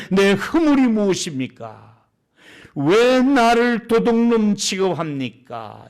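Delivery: mildly indignant protest, drawn out at the end; slow, emphatic reproach with a touch of anger; Jacob's reproach. Acted. Jacob answers uncle Laban back, mildly indignant reproach. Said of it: "라반을 책망할세".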